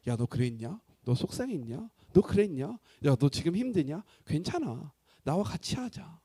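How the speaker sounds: gentle consoling. Acted. God talking to a hurting believer as a companion, gentle consoling.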